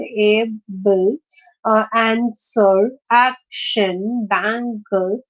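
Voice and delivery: "able", "answer", "action", "bangle" as a list, each leaning on its first syllable; first-syllable stress. Shown as a demonstration. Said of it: "emphasis is on the, uh, first syllable".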